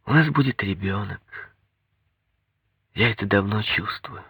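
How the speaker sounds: quiet, loving confidence; affectionate. A narrator's reading. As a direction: softly share a tender secret. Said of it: "сказала она ласково".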